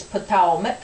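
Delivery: Potawatomi said the Algonquin way; Algonquin pronunciation. Shown as a demonstration. Tribe member showing the name in Algonquin pronunciation. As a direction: say Potawatomi as puh-TOW-uh-mik, Algonquin style. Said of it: "In the Algonquin language".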